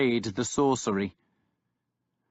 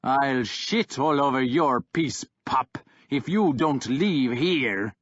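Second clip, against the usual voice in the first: understated snarling warlord; snarled; 3 semitones higher than usual. Acted. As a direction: growl the threat at the pup. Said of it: "Kjartan snarled".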